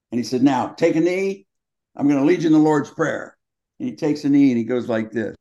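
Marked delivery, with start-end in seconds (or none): 0.4-3.3 imitating a coach leading prayer; solemn coach. Coach asks team to kneel.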